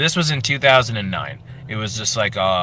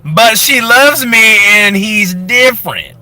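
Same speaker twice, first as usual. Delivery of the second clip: higher, slow, sugary announcement voice; oversharing Facebook lady; 10 semitones higher, 7 dB louder, slower than usual. Acted. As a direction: coo it out like a proud status update. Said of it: "She plays two characters".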